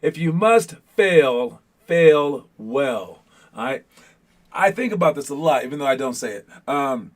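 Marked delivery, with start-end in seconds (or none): 0.0-3.2 slow, emphatic retry of a tongue twister; careful enunciation. Real, not acted. Coach retrying the motto he keeps messing up, careful enunciation. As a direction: stretch out "must fail", then land "fail well". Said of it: "I don't know why I keep messing up".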